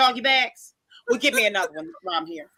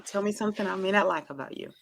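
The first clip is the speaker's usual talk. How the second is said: smiling, soft; 8 dB quieter than usual. Shown as a demonstration. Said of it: "Just smile".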